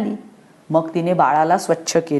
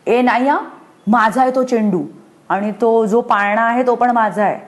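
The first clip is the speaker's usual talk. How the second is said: put-on child's shout; 4 semitones higher than usual. Anu shouts at her mother over her toys, higher. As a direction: yell it like a possessive child. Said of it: "Anu ओरडली".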